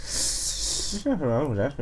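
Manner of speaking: put-on generic Irish accent. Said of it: "such a generic Irish accent".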